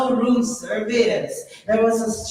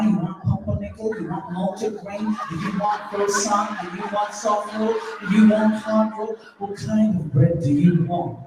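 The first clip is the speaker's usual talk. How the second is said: impatient waitress; 2 semitones lower than usual. Retold or imitated. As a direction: rattle through the menu as the waitress. Waitress rattles off bread list.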